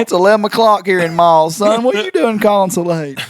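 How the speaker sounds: mock angry old man; mock angry dad. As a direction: play the dad, lightly outraged.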